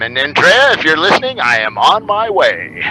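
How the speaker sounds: a lightly done on-air voice, calling out to Andrea; radio voice. Shown as a demonstration. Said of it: "That's my radio voice".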